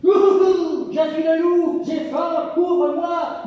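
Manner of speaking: a loud, greedy wolf demanding entry; big bad wolf. Wolf calls to the pig, loud and hammy. Wolf knocks at the straw house.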